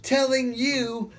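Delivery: high, slow and pleading apostle voice; slow, lifted plea to the crowd; Paul preaching. Acted. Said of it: "Paul shouting".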